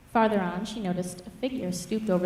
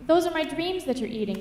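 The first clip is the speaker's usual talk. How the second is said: put-on higher-pitched upset girl's voice; understated weepy complaint, pitched up; tearful protest; 8 semitones higher than usual. A narrator's reading. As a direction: protest through tears, mildly acted. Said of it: "Crow Girl started to weep".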